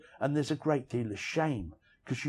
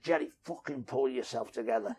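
put-on Liverpool accent; 5 dB quieter than usual. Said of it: "he had this really grating Liverpool accent".

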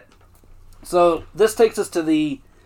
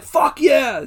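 high-pitched whoop of victory; mock elated cheer; 8 semitones higher than usual. D'Angelo thinks the sale is made, hammed-up elation. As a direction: imitate a jubilant boss.

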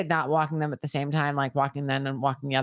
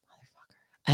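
whispered curse. Real, not acted. Cursing to herself after the fall.

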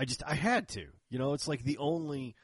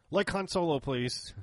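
high, louder eager ask, please whispered; eager request; 8 semitones higher, 4 dB louder than usual. Retold or imitated. Customer eagerly answers the holster maker, high and loud. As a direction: pipe up keenly like a kid ordering.

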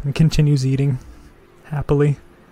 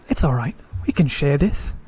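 preschooler voice. Acted. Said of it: "in a childlike voice".

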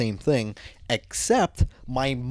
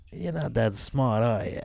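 mock condescension; 4 dB quieter than usual. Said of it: "you kinda look at 'em like".

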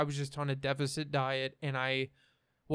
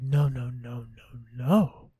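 imitating friend; 3 semitones lower, 6 dB louder, slower than usual. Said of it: "And she was like".

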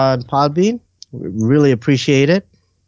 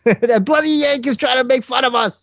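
high-pitched hammed-up British accent; mock English accent; 11 semitones higher than usual. Voicing the UK listener about the Yank, hammed-up English accent. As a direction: squawk it as an affronted fake Brit.

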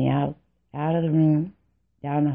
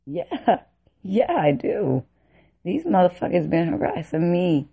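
higher-pitched, indignant comeback; acted-out indignant retort; defiant retort; 4 semitones higher than usual. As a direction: answer back in protest, pitch raised. Retort to drill sergeants, acted.

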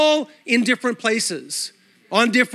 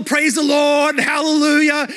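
raised, higher mock praise calls; mock worship shouts; 4 semitones higher than usual. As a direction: ham up churchgoers shouting praise. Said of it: "in some churches they say".

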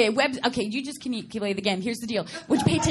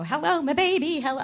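mock show-tune kid, pitched up; showbiz kid; 5 semitones higher than usual. Actress mocking stagey child performers, showy kid voice. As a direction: belt it like a hammy child performer. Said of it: "I wasn't one of those kids".

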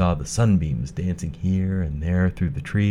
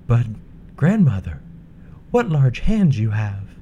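put-on bright, high young girl; a sweet, polite little girl; 6 semitones higher, 4 dB louder than usual. Girl at the bed.

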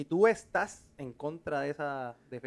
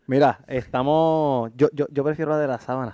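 mouth at waterline; 3 semitones lower than usual. Real, not acted. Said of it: "Estás hablando debajo del agua".

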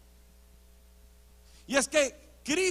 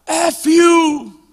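loud, high reenacted yell; shouted curse; 4 semitones higher, 10 dB louder than usual. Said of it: "yo empiezo a gritar maldiciones". (maldición gritada con fuerza)

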